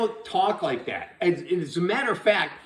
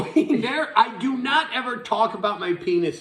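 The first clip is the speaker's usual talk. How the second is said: laughing denial; 4 semitones higher than usual. Real, not acted. Laughs while denying.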